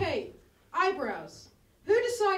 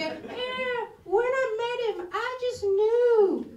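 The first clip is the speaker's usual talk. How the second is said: higher, dreamy mock lovestruck voice; lovestruck friend; 6 semitones higher, much slower than usual. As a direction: gush like a friend newly in love. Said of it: "They go".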